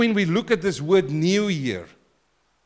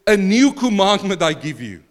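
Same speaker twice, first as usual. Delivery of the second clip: proclaiming; 3 semitones higher, 6 dB louder than usual. Shown as a demonstration. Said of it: "and he says to them".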